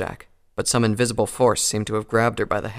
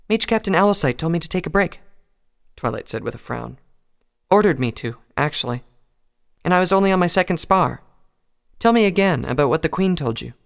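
higher, louder, irritated; annoyed at being sent off duty; frowning Twilight; 7 semitones higher, 4 dB louder than usual. Acted.

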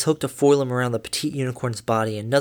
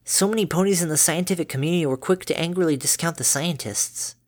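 learned voice; 5 semitones higher than usual. Acted. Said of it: "said in a learned voice, mumbling".

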